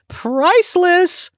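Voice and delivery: drawn-out delighted cry; gleeful exclamation. Real, not acted. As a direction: savour the word like a punchline. Gleeful punchline about manager's face.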